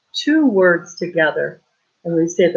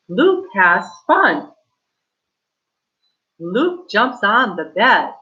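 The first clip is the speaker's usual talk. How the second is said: put-on reading to children; slower than usual. Teacher reads story to class.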